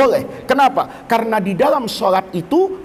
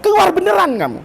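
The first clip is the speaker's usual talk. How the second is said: mock angry teacher; 4 semitones higher than usual. Shown as a demonstration. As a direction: play the fed-up teacher ordering a student out. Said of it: "Saya tambah marah apa tambah sabar?". (guru pura-pura marah menyuruh murid keluar)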